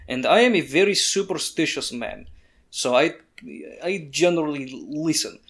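deliberate, halting reply in light character voice; lightly voiced superstitious guide. Gilderoy answers what to watch out for, superstitious guide. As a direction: mull it over as a wary guide.

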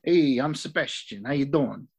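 a hint of a Chicago tough guy, slow; mimicking a tough-guy accent. Sebastian introduces himself, in a lightly mocked tough-guy accent. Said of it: "tough guy sort of thing".

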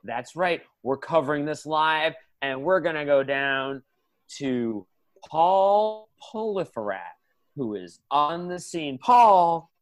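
TV anchor read; news anchor. Acted. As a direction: deliver it like live TV news.

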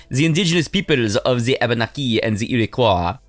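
mock French accent reading; lightly done French accent. Shown as a demonstration. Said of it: "we just did it like this".

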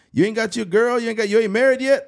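high, fast nosy-grandpa questioning; grandpa impression. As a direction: grill a grandchild in a put-on high voice. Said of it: "he's like".

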